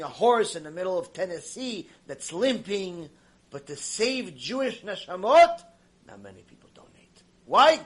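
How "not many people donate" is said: hushed whisper. Real, not acted. Preacher whispers point.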